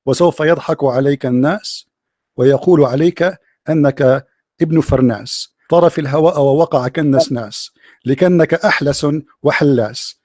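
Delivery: low, measured classical Arabic recitation; mock classical poetry. Shown as a demonstration. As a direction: declaim an improvised insult in formal Arabic verse. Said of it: "I just made a poetry". (إلقاء شعر هجائي بالفصحى)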